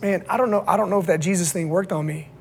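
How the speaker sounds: subdued, mildly sad admission; sad, doubting young man. Retold or imitated. Young man confessing doubts to his pastor, sad. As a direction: softly imitate a disheartened young man. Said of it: "he was so sad".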